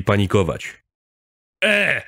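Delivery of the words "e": very high sharp shout for attention; firm yell. A narrator's reading. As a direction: bark it to silence the crowd. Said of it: "wrzasnął stanowczo Robert". (stanowczy wrzask)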